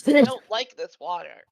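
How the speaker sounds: high, loud disgusted wail; loud complaint. Acted. Character complains after whiskey.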